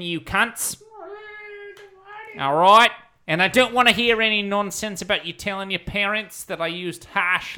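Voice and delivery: put-on light Australian principal accent; a mild Aussie twang, crude headmaster. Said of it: "Oh, Murray became Australian".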